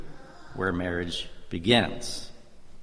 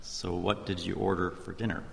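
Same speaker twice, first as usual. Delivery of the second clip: softer, leaning back, a sly dry question; quiet; 7 dB quieter than usual. Retold or imitated. The pastor quietly asks the Buddhist guest about her pork dinner. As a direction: drop the voice and let it land. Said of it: "and I said quietly".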